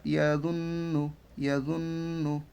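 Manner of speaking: "ইয়াজুন্নু" with a long nasal n; held n, then normal "নু" in "ইয়াজুন্নু"; ghunnah. Shown as a demonstration. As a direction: hum on the doubled n of "ইয়াজুন্নু". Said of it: "প্রথম নুনটাকে গুণনা করব".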